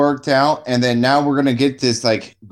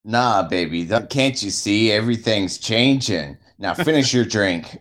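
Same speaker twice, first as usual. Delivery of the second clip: low, softer sweet-talk; lightly voiced low seducer; smooth seducer; 4 semitones lower, 4 dB quieter than usual. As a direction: coax a date in a low voice. Acts smooth seducer on a date.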